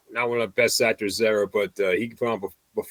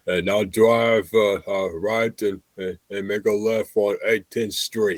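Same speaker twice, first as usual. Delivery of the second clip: cowboy voice; 2 semitones higher than usual. Retold or imitated. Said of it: "you sounded like a, like an older cowboy".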